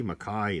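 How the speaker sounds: "Mackay" said as mac-KAI, rhyming with eye; Mackay with the ending like "kai"; right pronunciation. Shown as a demonstration. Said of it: "that's pronounced Mackay".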